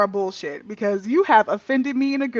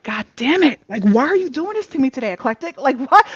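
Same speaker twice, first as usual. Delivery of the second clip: exasperated; 3 semitones higher, 5 dB louder than usual. Retold or imitated. Retold exasperation at therapist.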